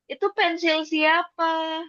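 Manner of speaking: drawn out slowly, pitched a bit up; slow teacher question. Shown as a demonstration. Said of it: "Sensei nanya gitu kan". (pertanyaan guru yang pelan)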